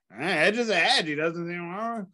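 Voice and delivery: high, loud mock Yorkshire constable; quoting the Hot Fuzz constable in a Yorkshire accent. Retelling a film scene to a friend, mock Yorkshire accent.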